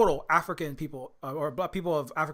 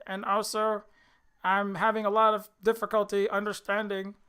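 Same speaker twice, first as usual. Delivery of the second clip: hammed-up parody of a baffled pundit; Jordan Peterson; 3 semitones higher than usual. Host mocking Jordan Peterson's complaints, mock-baffled impression. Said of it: "tie back into the Elliot Page and Jordan Peter".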